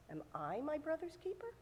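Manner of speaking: "I" picked out, question rising at the end; stress on I. Shown as a demonstration. Cain answers God with a question, stressing "I". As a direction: softly ask it with the weight on "I". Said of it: "that's where the emphasis should be".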